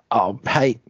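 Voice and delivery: whispered, high excuse. Acted. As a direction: hush the excuse to her. Garth pleading with Imra.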